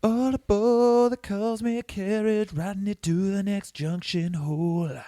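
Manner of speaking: slow, grand conductor's announcement; train conductor call. Pretend. Repeats partner's line as conductor.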